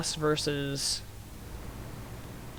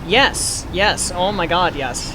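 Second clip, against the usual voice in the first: loud, emphatic burst of enthusiasm; excited agreement; 5 dB louder, slower than usual. Real, not acted. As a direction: jump in with eager agreement. Enthusiastically agreeing with chat about show.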